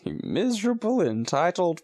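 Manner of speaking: high, slowing theatrical contempt; mock scorn. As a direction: pile scorn on ungrateful fans. Joins the rant at fans.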